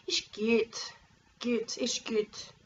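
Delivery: slow Valais Swiss German Ist gut; Valais accent. Retold or imitated. Vlogger imitating mountain locals, Valais accent. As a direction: imitate the Wallis dialect, drawn out. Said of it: "a very different accent".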